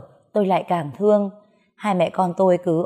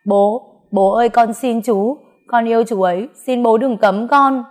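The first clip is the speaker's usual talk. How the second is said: pleading in tears; 4 semitones higher, 4 dB louder than usual. Acted. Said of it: "vừa khóc vừa nói".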